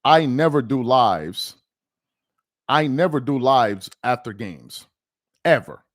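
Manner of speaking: slow, drawn-out stress on "never"; emphatic insistence. Real, not acted. Livestreamer insisting he never goes live after games, slow and emphatic. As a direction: stretch "I never do lives", then land "ever" alone.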